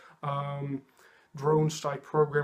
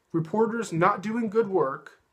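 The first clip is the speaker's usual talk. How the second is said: slower and louder, leaning on good in disbelief; mocking repeat; 5 semitones higher, 5 dB louder, slower than usual. Mocking Pompeo's words back at viewers, slow and loud. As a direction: repeat it back like it's absurd. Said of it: "the two sentences you just said".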